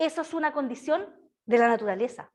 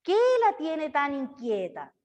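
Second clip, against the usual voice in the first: put-on baby-talk cadence. Shown as a demonstration. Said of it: "A ver, con esa cadencia".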